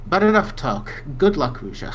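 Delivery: firm NPC line. Acted. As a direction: cut the talk short.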